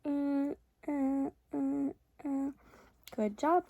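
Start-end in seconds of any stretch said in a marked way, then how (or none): 0.1-2.5 tongue out sounds. Shown as a demonstration. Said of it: "have you move side to side".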